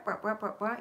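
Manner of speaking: imitated wah-wah chatter; mock nagging noise. Reminding viewers of the critic, mock nagging noise. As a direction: rattle off wahs as empty criticism. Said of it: "when you hear the wah".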